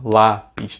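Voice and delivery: LÁPIS broken into LÁ and PIS; two separate beats on Lápis; split into syllables. Shown as a demonstration. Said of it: "A gente separa a sílaba".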